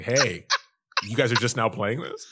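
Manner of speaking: elitist. Pretend. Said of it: "now we can be super elitist".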